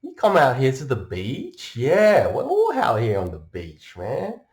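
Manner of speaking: high, loud Aussie surfer charm; brash Aussie pickup. Retold or imitated. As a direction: saunter up and chat her up, Aussie style. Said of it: "Just walk right up".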